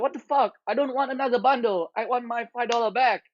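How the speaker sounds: mock-outraged, reliving the refund fight; indignant retold outburst. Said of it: "I'm like".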